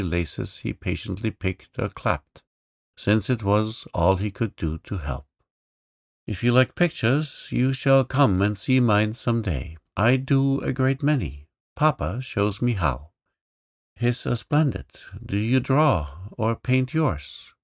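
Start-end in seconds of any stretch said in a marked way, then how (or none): 6.3-17.5 put-on higher, eager little girl's voice; bold little girl. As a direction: play the lively young princess, pitched up. Girl's lines.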